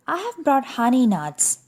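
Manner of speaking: fast and eager; grinning. Acted. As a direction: say it with a grin. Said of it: "badger says with a grin".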